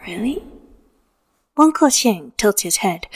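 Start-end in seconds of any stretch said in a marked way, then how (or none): 0.1-0.4 soft question. A narrator's reading. Ghost lover softly questioning.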